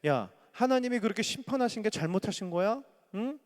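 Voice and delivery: high, pushy rebuke; a friend accusing Job; rebuking. Acted. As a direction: needle him with a scornful question. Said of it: "두 번째".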